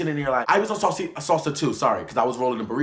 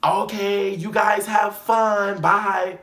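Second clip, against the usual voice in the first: dismissive boss; 8 semitones higher, 6 dB louder, much slower than usual. Retold or imitated. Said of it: "he's like".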